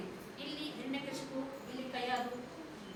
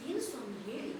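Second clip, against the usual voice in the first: softer, lower queen asking obediently; queen's voice; 7 semitones lower, 12 dB quieter than usual. Acted. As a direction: ask your lord humbly, softly. Queen asks the king. (ರಾಣಿ ರಾಜನನ್ನು ವಿನಯದಿಂದ ಕೇಳುವುದು, ಮೃದು ಧ್ವನಿ)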